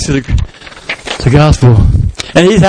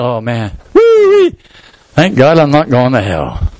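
smug relief; 4 semitones lower than usual. Acted. Smug new convert's inner voice.

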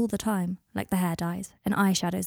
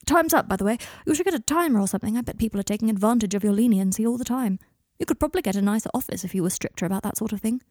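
brisk deflection; 2 semitones higher than usual. Acted. Client briskly deflects as session ends.

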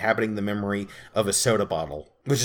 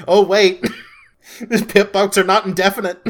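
surprised; 8 semitones higher, 6 dB louder than usual. Retold or imitated. Quoting character's panic.

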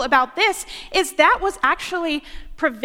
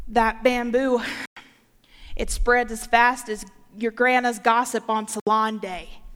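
put-on Southern accent; 4 semitones lower than usual. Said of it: "in his deep Southern accent".

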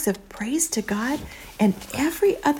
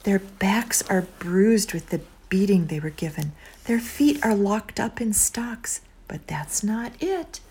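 whispered storytelling. Acted.

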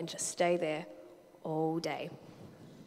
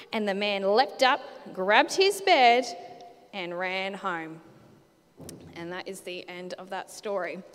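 lively, animated storybook read-aloud with character voices; children's story reading; 4 dB louder than usual. Acted. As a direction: read it to the kids like a picture book. Reads Bible story to kids.

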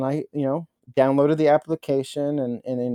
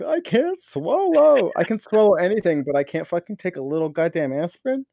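mock whine; 4 semitones higher than usual. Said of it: "I'm like".

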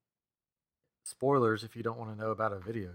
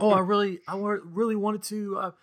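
higher, flustered Peter voice, stammering; a hammed-up nervous young Peter, higher; 9 semitones higher than usual. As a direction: play a caught-out Peter fumbling. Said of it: "And he's like".

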